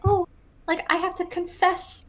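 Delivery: lightly swooning high voice; gushing schoolgirl crush; high mock swoon. Acting out a shoujo love interest.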